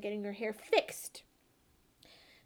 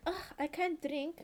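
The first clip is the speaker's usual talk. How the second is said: mock coy refusal; 5 semitones higher, 4 dB quieter than usual. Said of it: "women are very, like".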